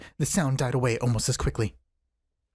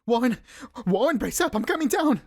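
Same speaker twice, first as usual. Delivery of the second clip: higher, resolute call; shouted resolution; 9 semitones higher than usual. A narrator's reading. Carter shouting down to his trapped friend, a higher resolute call. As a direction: call down with sudden courage. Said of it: "I formed and shouted my resolution".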